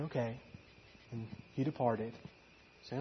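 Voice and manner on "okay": low, soft acceptance; gentle, subdued reply; kindly. Retold or imitated. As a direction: say it kindly, very quietly. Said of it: "she kindly, you know, said".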